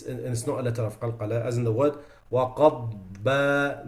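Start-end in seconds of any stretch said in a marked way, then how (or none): 2.3-3.9 وَقَضْبَ with a clear dad, no bounce; correct dad. Shown as a demonstration. Teacher giving the correct word. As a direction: say وَقَضْبَ smoothly, without qalqala. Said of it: "They say".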